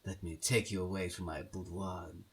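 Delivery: mock-seductive upper-class English villain; hammed-up seducer in a posh English accent; classic English villain. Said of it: "classically sexy for the villain".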